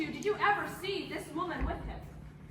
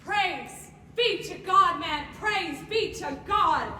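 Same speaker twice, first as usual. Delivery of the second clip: fervent praise; 6 dB louder, much slower than usual. Acted. Judge rejoices at confession.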